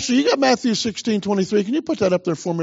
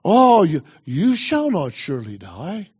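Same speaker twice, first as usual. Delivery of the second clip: serpent tempting Eve; 3 semitones lower than usual. Acted. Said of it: "The serpent said to the woman".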